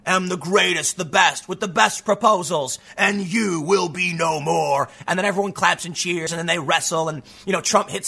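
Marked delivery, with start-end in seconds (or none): 0.1-4.9 lightly voiced wrestler's boast, drawn out at the end; a hint of a ringside showman issuing a challenge; wrestling promo. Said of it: "go up in that ring and say".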